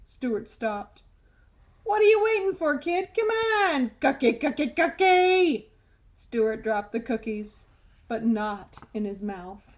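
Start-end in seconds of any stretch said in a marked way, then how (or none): 1.8-5.7 loud tooth. Acted. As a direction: blurt it across the classroom. Tooth urges eating.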